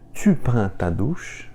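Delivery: "Tu prends ta douche?" slowly, rising on "douche"; slow model question, lifted at "ta douche"; question intonation. Shown as a demonstration. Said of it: "É só mudar a entonação".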